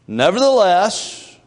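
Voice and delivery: Nevertheless drawn out slowly with a doubtful rise; reluctant nevertheless. Retold or imitated. Preacher voicing Simon's grudging reply to Jesus, slow reluctant rise. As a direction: stretch out Nevertheless grudgingly, ending up. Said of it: "What he's doing is he's telling Jesus".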